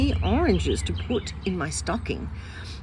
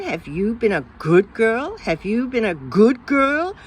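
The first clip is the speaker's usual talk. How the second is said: nagging grown-up; 4 dB louder than usual. Retold or imitated. Adults nagging the child Jane.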